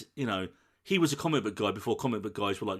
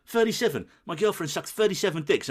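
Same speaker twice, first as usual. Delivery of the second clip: retold exasperated outburst; 6 semitones higher than usual. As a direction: blurt it out to a stranger in mock disbelief. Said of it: "He's like".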